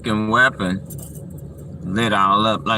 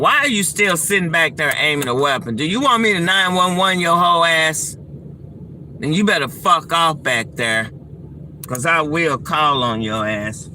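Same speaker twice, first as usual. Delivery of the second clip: furious, shouting threats; angry yelling; 6 semitones higher than usual. Real, not acted.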